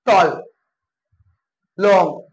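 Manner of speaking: टॉल and लॉन्ग each as one falling beat. Shown as a demonstration. Teacher showing one-syllable words to students, each said in one go. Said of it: "जिसे हम एक बार में बोल रहे हैं".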